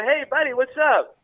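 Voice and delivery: mock call up to the stage, drawn out. Retold calling out to singer.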